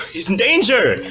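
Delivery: high mock-alarmed cry; corny fake priest voice; hammy priest.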